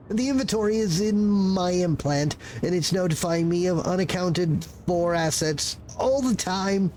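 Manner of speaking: a frazzled little bureaucrat caught off guard; nervous clerk voice. Acted. Clerk role.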